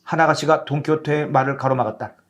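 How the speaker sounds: usual speaking voice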